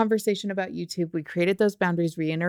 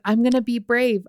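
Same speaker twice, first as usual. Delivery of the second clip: put-on excited child; 5 semitones higher than usual. Child chanting brave, voiced.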